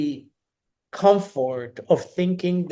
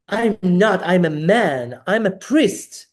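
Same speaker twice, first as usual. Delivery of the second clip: mildly upset, louder retort; retold snap; 3 semitones higher, 4 dB louder than usual. Correcting the therapist's guess, mildly upset retort. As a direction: snap back a little, insisting. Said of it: "I snapped, kind of upset".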